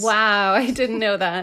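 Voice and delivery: mock amazement, badly faked; fake surprise. Co-host who read ahead reacts to the figure, fake surprise. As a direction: play surprised at a number you already read. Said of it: "I can fake guess".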